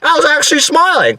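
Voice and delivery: high-pitched, pumped-up telling; excited. Retold or imitated. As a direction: say it still riding the adrenaline. Reliving adrenaline excitement.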